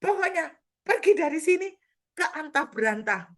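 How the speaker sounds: very high, loud banishing cry; ordering the spirit away for good; commanding shout. Retold or imitated. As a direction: cast it out at the top of the voice. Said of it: "Pokoknya saya bilang".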